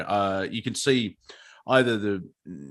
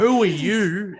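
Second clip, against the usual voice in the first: higher, louder affronted snap; mock outraged Karen; 8 semitones higher, 5 dB louder, slower than usual. Karen turning on the helper, higher and louder. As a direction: snap at the stranger who meddled. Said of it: "the fire turned on me".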